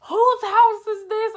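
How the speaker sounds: slow, loud, high demand; wife grills her, slow and loud; angry demand. Retold or imitated. Suspicious wife demanding answers.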